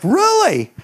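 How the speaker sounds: high, surprised "Really?"; mock surprise. To the boy, playfully surprised. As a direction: feign amazement. Preacher's surprised reply retold.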